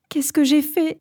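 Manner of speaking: high, panicked self-question; panicked whisper to herself. Acted. Nathalie realizing what she did, panicked and high. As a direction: gasp it out in sudden dread. Waking in horror, realizing betrayal.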